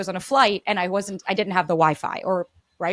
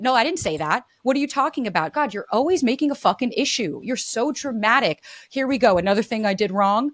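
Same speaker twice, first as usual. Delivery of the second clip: higher, exasperated denial rant; defensive deflecting; 3 semitones higher than usual. Acted. Partner hears a complaint and snaps back defensively. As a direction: brush off every complaint, fed up. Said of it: "we go into discredit".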